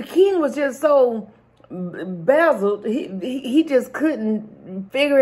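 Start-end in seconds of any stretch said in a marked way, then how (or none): 1.7-2.9 stumbled word. Real, not acted. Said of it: "I was trying to say baffled".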